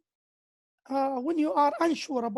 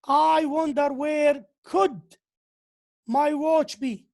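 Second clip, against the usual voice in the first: teacher stressing the wrong form; wrong form, stressed; slower than usual. Shown as a demonstration. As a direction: hammer out the mistake slowly. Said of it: "we do not say".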